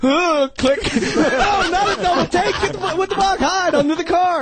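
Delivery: very high, frantic mock yell; imitated exasperated yelling. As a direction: scold like a director losing it, voice way up. Imitating frantic scolding on set.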